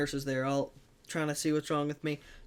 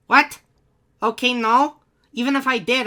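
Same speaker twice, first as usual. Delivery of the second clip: loud, high disbelieving comeback; exasperated retort; 7 semitones higher, 9 dB louder than usual. Retold or imitated. Injured skier answers the covid question, loud and exasperated. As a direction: snap back in disbelief.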